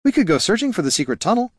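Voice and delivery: put-on eager young priest voice. Niln's line in a character voice.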